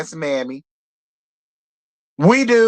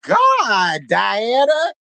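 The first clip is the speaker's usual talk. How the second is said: mock outraged shout; 4 semitones higher than usual. Reality show recapper yelling at Diana. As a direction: shout it out like you can't believe her. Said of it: "I said".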